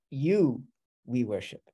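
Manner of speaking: "You" held on its own, then a pause; emphasis on You. Shown as a demonstration. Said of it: "it's a natural, uh, emphasis on".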